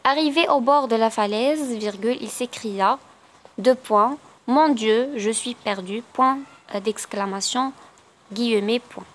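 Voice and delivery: very slow, naming each punctuation mark; slow dictation reading. Acted. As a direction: dictate it word by word. Dictates sentence.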